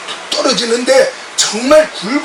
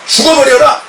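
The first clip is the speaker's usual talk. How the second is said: loud, raised cry of fury; retold angry shout; 3 semitones higher, 4 dB louder than usual. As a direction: hurl it out in anger. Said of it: "제가 막 화가 나가지고".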